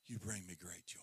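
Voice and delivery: hushed, breathy echo of a blessing; soft intimate whisper; tender whisper. Acted. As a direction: whisper it like a secret gift. Whispered repeat of Father's words.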